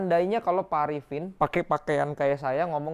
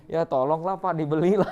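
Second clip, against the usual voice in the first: pleading unsure pitch. Shown as a demonstration. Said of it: "Tuh, intonasi suara".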